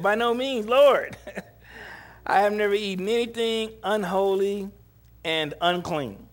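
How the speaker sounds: a high, loud, pleading refusal with the Lord; hammed-up horrified protest; Peter protesting. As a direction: beg off like a devout man offended.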